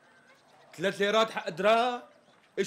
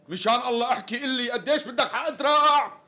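louder, pleading in exasperation; exasperated demand; 5 semitones higher, 4 dB louder than usual. Acted. Customer fed up with the tailor's stalling, exasperated demand. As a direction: beg for the price, fed up. Customer losing patience over price.

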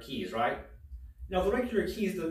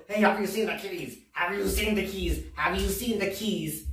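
raised-pitch mock holler, questioning everyone; hollering grandmother; 4 semitones higher than usual. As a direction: imitate an angry grandma interrogating people. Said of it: "just hollering to her, her lungs over there".

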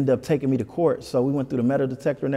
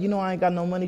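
higher-pitched take on a mother; imitating mom; 6 semitones higher, much faster than usual. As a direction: lightly voice a mom on the phone, pitched up. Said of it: "she was like".

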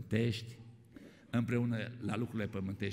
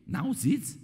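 raised calling out; 11 semitones higher, 3 dB louder than usual. Retold or imitated. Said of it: "și zbiară".

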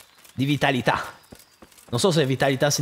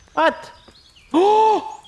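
very high, loud startled yelp; 5 dB louder than usual. Real, not acted. Finding an enemy camp, high startled yelp. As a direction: jump at the sight.

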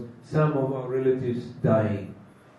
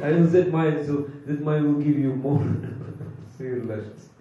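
retold laughing threat. Guru jokes to disciple about asking Maya for more lashes, laughing. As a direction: start firm, then laugh through the pause. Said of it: "starts to laugh again".

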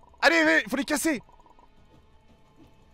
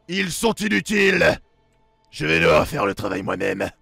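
slow, much lower scornful villain; booming echoing villain monologue; 8 semitones lower than usual. Acted. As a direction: sneer at useless minions. Villain scorns his minions.

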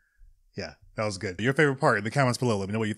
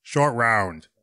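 Harrison Ford impression; 3 dB louder than usual. Shown as a demonstration. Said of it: "Can you do a Harrison Ford impression".

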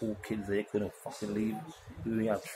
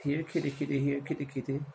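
mock cat call; 5 semitones higher than usual.

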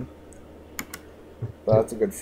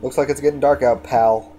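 folksy cowboy voice; 4 semitones higher, 6 dB louder than usual. Acted. Folksy remark in game.

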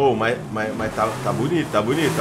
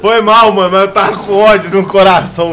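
loud apology; 6 semitones higher, 9 dB louder than usual. Real, not acted. Apologising after ramming a friend.

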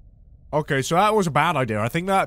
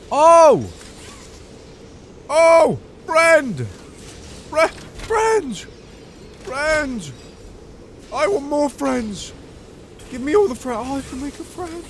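high, loud gleeful squeals; giddy excitement; 9 semitones higher, 7 dB louder, slower than usual. Real, not acted. Player thrilled at making a friend, giddy high squeals.

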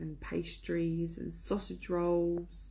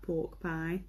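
"pork pie" said slowly in a light northern English accent; a slow, lightly done northern English accent on "pork pie". Shown as a demonstration. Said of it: "you have to say pork pie in, like, a northern accent".

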